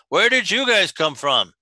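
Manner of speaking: second giant head echoing; the other head repeats the question; two bickering giant voices. Acted. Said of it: "I like that Jim made both heads speak".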